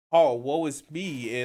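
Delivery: slow, drawn-out mock self-pity; slow sarcastic woe-is-me; mock whiny lament. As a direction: parody a whiny complaint. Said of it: "it's just whiny at this point".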